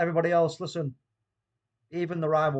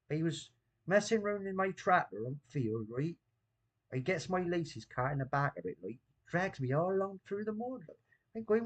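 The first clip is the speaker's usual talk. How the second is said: put-on Bristol accent; 3 semitones higher than usual. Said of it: "Talk, do the Bristol accent".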